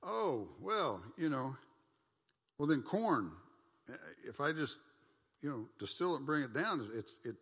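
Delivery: loud, high, hammed-up rationalizing voice; mocking excuse-maker. Preacher mocking someone excusing moonshine, loud high hammed-up voice. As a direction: play the guy talking himself into it. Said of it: "what folks like to do".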